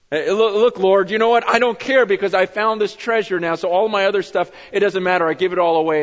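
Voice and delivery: a rich man thrilled to be rid of his wealth; eager giving. Acted. Zacchaeus gives away his money.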